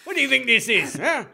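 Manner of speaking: mock stern dressing-down. Co-host correcting colleague's retelling to the producer, mock outrage. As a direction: lay into him with put-on outrage. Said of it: "adopt that tone with him".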